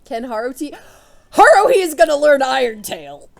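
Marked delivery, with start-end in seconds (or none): 1.3-3.3 loud, high, thrilled outburst; overjoyed cry of discovery; excited shout. Real, not acted. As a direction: yell it out in delight at the lucky find. Thrilled to find TM Iron Tail.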